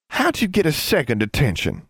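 high-pitched sisterly questioning; high, disapproving query; interrogating. A narrator's reading. Sister interrogates the younger one.

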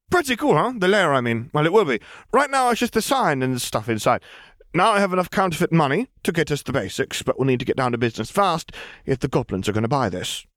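put-on a cheerful scheming girl; voicing the young girl Lily, high and eager; Lily's bubbly girl voice. A narrator's reading. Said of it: "she said".

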